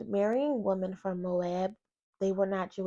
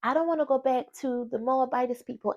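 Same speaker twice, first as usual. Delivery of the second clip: earnest pleading Ruth; 4 semitones higher, 3 dB louder than usual. Retold or imitated. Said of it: "She said".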